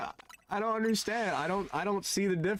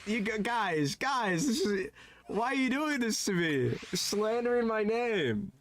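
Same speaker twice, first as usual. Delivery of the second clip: higher, pleading complaint; wounded protest; 6 semitones higher than usual. Real, not acted. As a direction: plead with chat as if wronged. Playfully hurt by chat's teasing.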